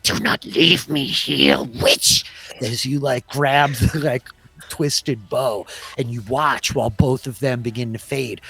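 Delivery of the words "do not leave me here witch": slow, louder, pleading cry from the ground; abandoned creature shouting after the witch; desperate plea. Acted. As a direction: beg them not to abandon you. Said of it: "You hear this voice from the ground".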